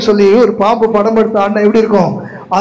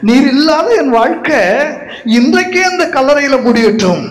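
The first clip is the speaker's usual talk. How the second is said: voicing Mary's grief at the tomb, higher; a desperate vow, pitched up; mourning woman crying out, raised pitch; pleading lament; 4 semitones higher than usual. Preacher voices Mary at tomb.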